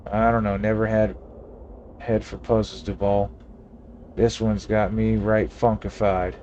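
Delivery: a hint of a crusty Western sidekick; folksy frontier old-timer, mildly played; old cowboy voice. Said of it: "Gabby doesn't talk like that".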